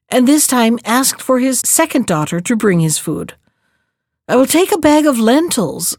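calm storytelling read aloud; story narration. A narrator's reading. Reads a folktale aloud.

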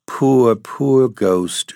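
tender pity, starting high and falling; pitying murmur. A narrator's reading. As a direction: gently feel sorry for him, not hushed. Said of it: "she murmured".

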